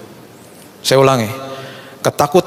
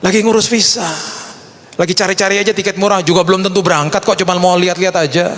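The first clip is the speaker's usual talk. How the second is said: lightly acted, higher-pitched chat; casual retold reply; 6 semitones higher than usual. Answering the friend about visa and tickets, lightly acted casual reply. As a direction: play it down in a higher voice.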